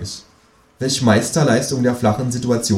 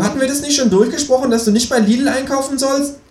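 very high, quick kangaroo voice; high-pitched nagging kangaroo; reproachful kangaroo; 4 dB louder than usual. A narrator's reading. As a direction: scold them in a high kangaroo voice. Kangaroo scolds the narrator.

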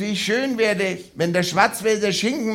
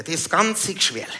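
mock bigot; 5 dB quieter than usual. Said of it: "bigot character rant".

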